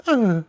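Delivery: high mock death moan; high, short mock death moan; imitated death moan. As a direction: squeak it out like the heroine dying. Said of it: "she just goes".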